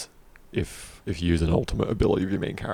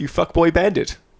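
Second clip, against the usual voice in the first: tiny goblin voice, much higher pitch, louder; 11 semitones higher, 6 dB louder than usual. Quoting what a tiny goblin pirate character calls you: tiny little goblin voice. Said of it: "In his tiny little goblin voice".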